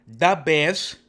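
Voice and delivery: put-on slow, loud Chicago accent. Sports show host showing off his Bears fandom, Chicago accent. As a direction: lean hard into a drawn-out Chicago accent. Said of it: "That's my Chicago accent".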